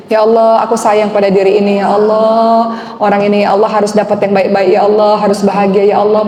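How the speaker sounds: tender self-prayer. Shown as a demonstration. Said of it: "Peluk-peluk aja diri sendiri".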